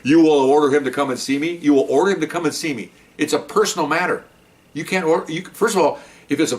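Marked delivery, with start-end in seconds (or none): 0.0-1.6 rising disbelief at the order; mock-outraged rising question; incredulous question. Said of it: "they had a little bit of discussion". 1.6-5.4 falling, declarative tone on order; the order restated, flat and final; flat statement. Retold or imitated. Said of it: "they had a little bit of discussion".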